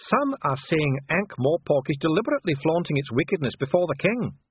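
high, formal dwarf voice; accusing dwarf official. A narrator's reading. Dwarf accusing the envoy before royalty, indignant.

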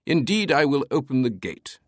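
high, grand British voice; theatrical British eccentric; British proclamation. A narrator's reading. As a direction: proclaim it with a thick British accent. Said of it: "Teabing proclaimed".

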